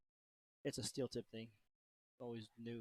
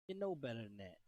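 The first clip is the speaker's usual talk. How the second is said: lightly put-on Philly accent; 2 semitones lower than usual. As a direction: say it Philadelphia style. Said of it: "stick to your Philly accent".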